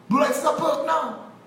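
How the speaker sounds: high-pitched call, imitating the crowd; mock crowd acceptance. Crowd accepting a minister's privilege, mocking high-pitched call.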